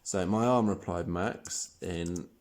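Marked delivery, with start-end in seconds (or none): 0.3-0.7 pained. Acted. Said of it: "with a pained expression".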